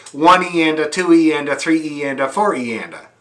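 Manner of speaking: "one E and a" counted evenly, fading at the end; counting sixteenths aloud. Shown as a demonstration. Teacher showing students how legit musicians count sixteenths. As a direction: spell out the subdivision evenly. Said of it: "then they say".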